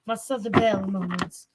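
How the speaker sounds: put-on Southern belle accent. Reader naming her belle moments in character, Southern belle accent. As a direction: lightly play the Southern belle.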